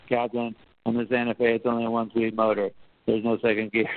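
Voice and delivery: flat, even report, voice barely lifted. Retold or imitated. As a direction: say it dead flat, like stating the obvious. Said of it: "he said it was very flat tone of voice, uh, very close to how I tried to say it there".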